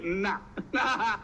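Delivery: incredulous chuckle through the words; laughing refusal. Retold or imitated. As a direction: laugh it off while saying no. Laughs off the invitation to Russia.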